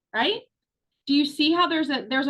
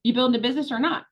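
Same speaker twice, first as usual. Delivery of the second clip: sassy push; faster than usual. Retold or imitated. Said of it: "Sassy Sandra would say".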